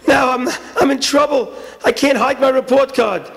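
high, stammering dismay; hammed-up schoolboy panic; panicked. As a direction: realise you are trapped. Boy realises he is caught.

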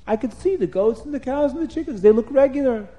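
high, bright joyful wonder; excited amazement. Acted. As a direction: exclaim like sight is a miracle. Avram amazed at seeing clearly.

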